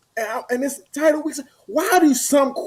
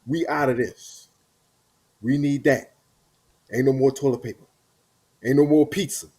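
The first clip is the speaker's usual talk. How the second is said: family asking for stuff; 11 semitones lower, 5 dB quieter than usual. Retold or imitated. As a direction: drag it out like a needy relative. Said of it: "when they say stuff like".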